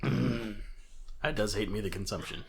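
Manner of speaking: put-on slow, lightly gravelly old woman. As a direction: drag it out in a gravel-edged croak. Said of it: "She says in a gravelly voice".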